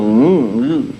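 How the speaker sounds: low ooh like a synth bass; Moog bass noise. Shown as a demonstration. Witness demonstrating the Moog bass sound, low ooh. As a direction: imitate a Moog bass stick. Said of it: "it's like a stick where you can go".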